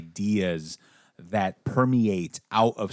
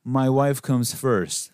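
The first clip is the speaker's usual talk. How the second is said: mocking husband; 2 semitones higher than usual.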